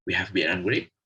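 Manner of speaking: "and" reduced, only connecting; weak form of and. Shown as a demonstration. Teacher explaining the weak form, "and" left unstressed. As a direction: link the nouns with an unstressed "and". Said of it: "It only connects".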